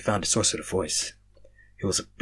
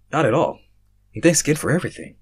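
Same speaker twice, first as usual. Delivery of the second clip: smiling; 5 semitones higher, 5 dB louder than usual. Acted. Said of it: "I said, smiling".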